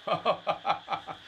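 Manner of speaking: a run of ha-ha bursts; amused laugh. Acted. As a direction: laugh at the employee's ploy. Laughs at the early Eid greeting. (হা-হা করে হাসি)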